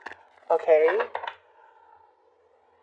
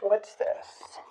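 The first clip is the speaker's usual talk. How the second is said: whisper; 4 semitones higher, 10 dB quieter than usual. Real, not acted. Tarot reader whispers over card.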